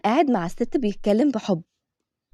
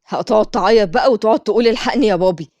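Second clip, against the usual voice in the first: a touch of louder taunting, mimicking a crybaby; mocking; 4 dB louder than usual. Bully girls mock Mira as a crybaby, loud taunting. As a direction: sneer at her like a schoolyard bully. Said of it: "ضحكوا البنات بسخرية".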